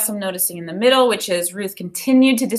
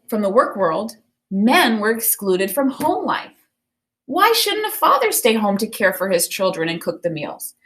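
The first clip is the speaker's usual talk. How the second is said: put-on clear, expressive reading of a children's book to the class; storybook read-aloud. Teacher reading a Ruth Bader Ginsburg picture book to students, expressive read-aloud. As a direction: read it like story time for kids.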